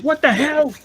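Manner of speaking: high indignant character voice, snubbed at the party; left-out comic character. Retold or imitated. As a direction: squeal it like an offended cartoon figure.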